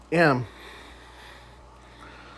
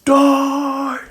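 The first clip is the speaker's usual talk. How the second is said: drawn-out roar, pitched way up; Zuko's roar; 10 semitones higher than usual. Acted. Zuko right in front of All for One, roaring. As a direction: stretch the word into one high, held cry, volume contained. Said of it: "as Zuko roars louder".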